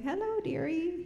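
put-on high, sweet old-lady greeting; elderly singsong. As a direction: coo it like a kindly granny. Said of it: "like a really pleasant-looking woman".

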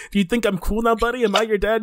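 high, loud pleading dad; mock dad fishing for compliments; needy stepdad. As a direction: beg for approval, hammed up. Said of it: "He's like".

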